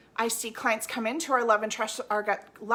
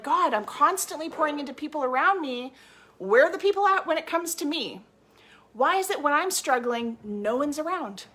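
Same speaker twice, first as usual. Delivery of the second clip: voicing an exasperated giver's lament, higher and louder; frustrated complaint; 4 semitones higher, 4 dB louder than usual. Coach voicing a drained client's complaint, frustrated and pleading. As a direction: let the resentment rise with each question. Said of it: "it's like".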